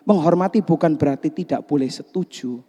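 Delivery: ordinary delivery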